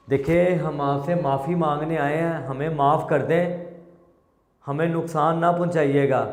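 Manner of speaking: loud pleading. Real, not acted. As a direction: call out and beg politely. Pleading aloud to spirit.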